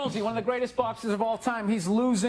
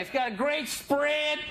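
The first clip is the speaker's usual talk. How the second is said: imitated redneck; 4 semitones higher, slower than usual. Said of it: "That's what they keep saying".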